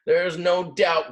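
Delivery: a hammed-up slow grumble; the little ram grumbles slowly about his horns; grumbling ram. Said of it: "grumbled the little ram".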